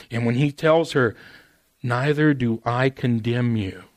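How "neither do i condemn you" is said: slow, gentle repeat; gentle words of mercy. Retold or imitated. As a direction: let the mercy land slowly. Repeating Jesus' words slowly.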